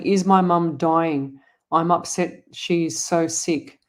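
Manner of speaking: slow, drawn-out worried question; imitating worried plea. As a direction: mimic her anxious asking, slowly. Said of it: "'cause you're saying".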